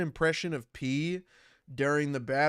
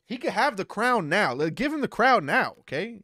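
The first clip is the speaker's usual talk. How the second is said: higher and louder hype; excited; 7 semitones higher, 5 dB louder than usual. Acted. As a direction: hype him up loudly. Hyping rival, raised voice.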